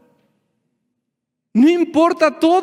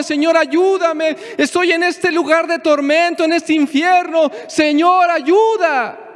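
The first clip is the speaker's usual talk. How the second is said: clamoring plea; 4 semitones higher than usual. Retold or imitated. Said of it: "Eso es lo que Jonás hizo".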